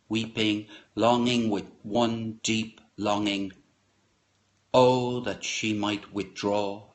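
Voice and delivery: slow, measured poetry reading; poem recital. Acted. Reader reciting a war poem to the group, measured and solemn. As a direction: let each image land, unhurried. Reads Whitman poem aloud.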